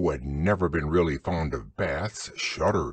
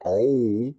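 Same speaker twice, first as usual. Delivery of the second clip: squeaky Piglet voice; 3 semitones higher, 5 dB louder than usual. A narrator's reading. Pooh/Piglet voiced in story.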